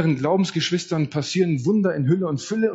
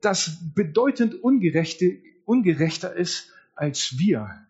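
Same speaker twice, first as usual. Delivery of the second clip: accusing lament; 4 semitones higher than usual. Retold or imitated. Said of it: "Habakuk klagt ein zweites Mal an".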